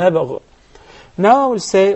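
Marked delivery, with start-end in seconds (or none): 0.0-0.4 نبغ ending on a vowelless ghain; نبغ cut off after the gh sound; sukoon on ghain. Shown as a demonstration. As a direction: stop on نبغ with no final kasra. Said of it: "into a sukoon. I say نبغ".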